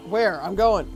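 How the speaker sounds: quick playful quote; teasing voice for the character; mock Neon line. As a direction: toss it off as Neon. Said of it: "Neon's like".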